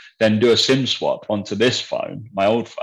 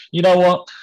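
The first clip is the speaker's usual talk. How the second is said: higher, louder, a sudden decision; mock resolute; 9 semitones higher, 5 dB louder than usual. Telling a friend he quit phones for the weekend, mock resolute. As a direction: announce it like a grand resolution.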